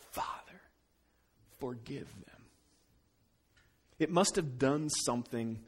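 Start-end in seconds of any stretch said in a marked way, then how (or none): 0.1-2.4 breathy near-whisper, much softer; hushed prayer. Acted. Jesus on the cross asking forgiveness, hushed near-whisper. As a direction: barely voice it, like a dying man's prayer.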